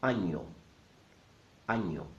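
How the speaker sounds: año said with the ñ sound, ny like canyon. Shown as a demonstration. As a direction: say año, ahn-yo. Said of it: "Number one".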